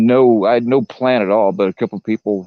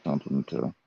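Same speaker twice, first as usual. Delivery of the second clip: voice changer; 5 semitones lower, 9 dB quieter than usual. Real, not acted. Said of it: "your voice changer's broke again".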